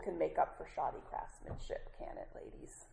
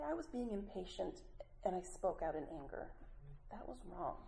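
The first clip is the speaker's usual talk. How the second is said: softer, sincere admission; sincere plain apology; 7 dB quieter than usual. Shown as a demonstration. Speaker models the specific apology to the ladies, softly and sincerely. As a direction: own it calmly.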